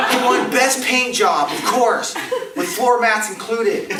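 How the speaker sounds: mock the rival while laughing; laughing mockery. Real, not acted. Comedian mocking Al King's prizes, laughing.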